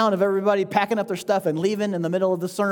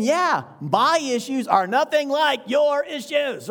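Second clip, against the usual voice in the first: smug agreement; 4 semitones higher, slower than usual. Acted. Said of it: "And they're thinking".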